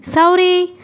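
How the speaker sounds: high, drawn-out call of a name; acted searching call, no real volume; distant call. A narrator's reading. Searcher calling the lost woman.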